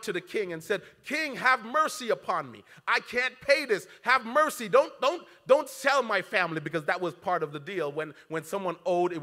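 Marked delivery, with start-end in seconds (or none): 1.1-6.6 pleading servant. Acted. Servant begging the king.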